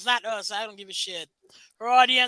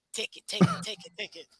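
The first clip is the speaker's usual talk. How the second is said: breathy hushed chant, much softer; whispered; 2 semitones lower, 7 dB quieter than usual. Shown as a demonstration. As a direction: whisper it close to the mic. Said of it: "doing the Nigerian voice".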